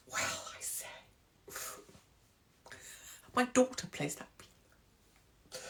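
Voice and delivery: a hint of a posh offended lady, soft and slow; mock posh lady. A prim lady scolding a rude commenter, mock posh. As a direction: play a prim matron, scandalised.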